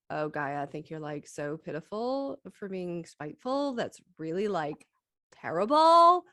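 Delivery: lightly put-on Valley Girl scolding a friend; playful Valley Girl accent, rising to a squeal at the end. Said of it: "I have to do the Valley Girl accent".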